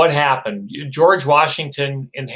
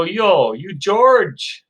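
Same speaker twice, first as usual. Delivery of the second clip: streetwise seller; 4 semitones higher, much slower than usual. Acted. Gun sellers greet George.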